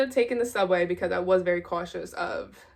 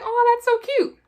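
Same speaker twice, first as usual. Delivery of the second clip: dad voice; 8 dB louder than usual. Retold or imitated. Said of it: "He's like".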